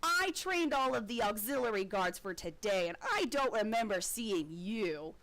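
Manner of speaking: a hint of an officer catching a lie; suspicious guard. Guard confronting Loeb, mildly stern. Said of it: "and he says".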